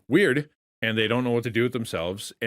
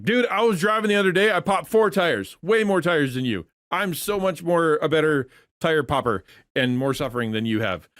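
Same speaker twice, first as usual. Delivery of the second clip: one-upping dude; 5 semitones higher, 4 dB louder than usual. Retold or imitated. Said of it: "the dude or whatever is gonna go like".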